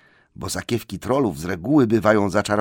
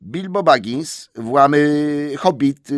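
slow, higher, nervous reply; trembling hobbit; 6 semitones higher, 5 dB louder, much slower than usual. Acted. Bilbo answers the trolls, slow and nervous. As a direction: stammer it out, shaking. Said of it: "trzęsąc się od stóp do głów".

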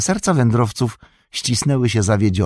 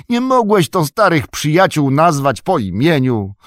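a higher, louder, fussy innkeeper voice; a flustered innkeeper scolding and welcoming all at once; bustling innkeeper; 6 semitones higher, 5 dB louder than usual. Acted. Butterbur greeting old friends and scolding Nob, loud and fussy.

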